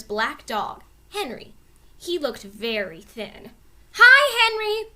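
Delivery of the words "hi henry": high loud greeting; shouting. A narrator's reading. Annie shouting hello to the neighbor's dog, loud greeting. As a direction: call out to the dog below. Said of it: "shouted Annie".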